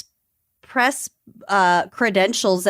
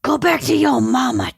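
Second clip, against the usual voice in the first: put-on growly toddler talk; 5 semitones higher than usual. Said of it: "June's been in a very growly mode".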